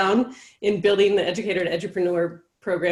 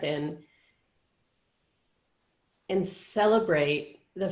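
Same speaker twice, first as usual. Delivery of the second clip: solemn reflection. Acted. Leads a solemn reflective moment.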